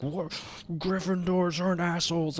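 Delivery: high, indignant mock retort; offended friend.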